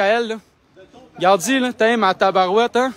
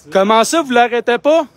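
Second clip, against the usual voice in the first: higher and louder demand; louder indignant question; indignant outcry; 4 semitones higher, 4 dB louder than usual. Real, not acted. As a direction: protest at the officers. Demanding police act.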